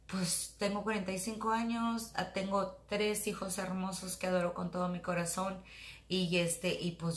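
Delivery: cheek pressed against palm; face resting on hand. Real, not acted. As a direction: jaw propped on hand. Seen 1: Hand on chin and cheek; mouth stays uncovered while speaking.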